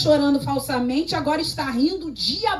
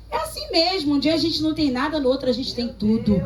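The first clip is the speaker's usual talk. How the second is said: imitating the doctor; 2 semitones higher than usual. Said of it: "Sabe o que ela falou pra mim?".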